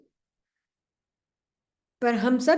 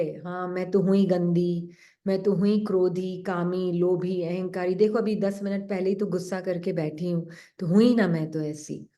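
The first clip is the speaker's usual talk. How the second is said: a lower, self-condemning inner voice; self-blaming mind; 4 semitones lower than usual. Retold or imitated. The mind telling the soul it is impure, lower voice. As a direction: let the mind sigh out its guilt. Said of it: "कोई भी संकल्प मन बोले".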